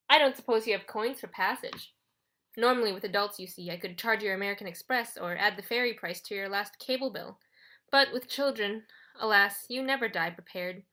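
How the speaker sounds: lightly voiced condescending gatekeeper; officious ferryman. Charon tells children to wait for centuries, officious. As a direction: turn them away with smooth officiousness.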